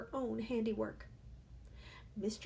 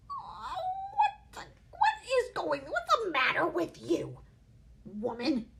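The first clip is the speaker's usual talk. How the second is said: high strained shout, slow at first; 12 semitones higher, 5 dB louder than usual. A narrator's reading. Father shouting at his wife over the spilled plate, loud. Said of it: "he shouted".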